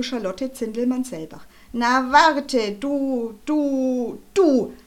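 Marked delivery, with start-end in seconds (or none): 1.7-4.7 wütende Drohung. Acted. Schlägefred droht wütend Charlotte.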